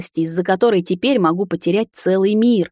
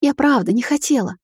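высоко, на грани слёз; сквозь всхлип оправдаться; всхлипывая; 7 semitones higher than usual. A narrator's reading. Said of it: "всхлипнула она". (высокий плаксивый голос)

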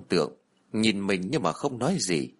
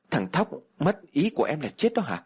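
incredulous; 7 semitones higher than usual. Acted. Shocked echo of the news.

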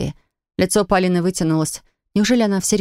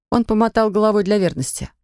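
ordinary talk

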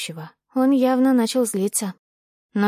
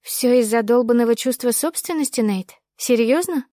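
raised voice; 3 semitones higher than usual. Acted. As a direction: raise your voice in disbelief. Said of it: "Я не заметила, как повысила голос".

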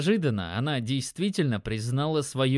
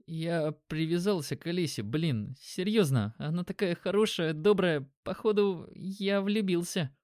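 put-on young guy, shy confession; 4 semitones higher than usual. Dimon confessing, voiced higher.

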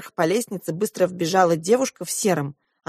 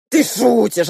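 dismissive; 4 semitones higher, 6 dB louder, slower than usual. A narrator's reading. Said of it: "отмахнулся дядя Юра".

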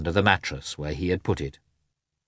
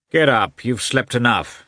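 loud, raised wake-up call; rousing call; 5 semitones higher, 5 dB louder than usual. A narrator's reading. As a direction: rouse a sleeper firmly. Rousing a sleeping comrade.

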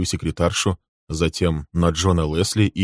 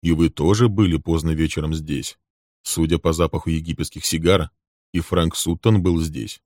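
calm remark. Acted. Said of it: "спокойно заметил Лесли".

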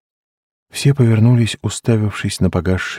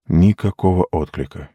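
plain reading voice

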